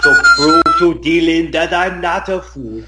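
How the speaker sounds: put-on slow, heavy Austrian-accented sing-song; drawn-out, hammed-up celebrity impression; Arnold Schwarzenegger. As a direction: badly impersonate an action star chanting a silly rhyme. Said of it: "Arnold Schwarzenegger as Billy Madison".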